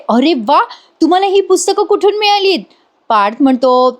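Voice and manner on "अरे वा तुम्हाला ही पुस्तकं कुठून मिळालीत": bright, pitched-up surprised question; wife delighted and surprised at the books. Retold or imitated. Surprised wife asking where the books came from, voice pitched up. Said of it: "surprise होते".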